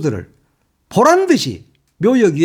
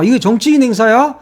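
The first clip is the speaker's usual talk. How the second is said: higher, indignant rapid-fire demands; angry questions; 5 semitones higher than usual. Real, not acted. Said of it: "말하다 보니까 화가 나잖아". (화가 나서 연달아 따지는)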